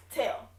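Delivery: "tell" set alone and firmly punched; stress on tell. Shown as a demonstration. Coach singling out the overused word for viewers, stressed "tell". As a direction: put heavy emphasis on "tell" as one word. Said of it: "putting too much emphasis on this word".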